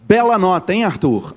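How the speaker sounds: sarcastic compliment to the student; teasing teacher irony; ironic praise. Shown as a demonstration. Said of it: "Ironia é quando você diz o contrário".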